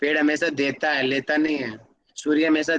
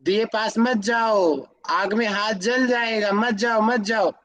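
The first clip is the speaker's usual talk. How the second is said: put-on warning a child; 4 semitones higher, slower than usual. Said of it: "हम बोल रहे हैं बार बार".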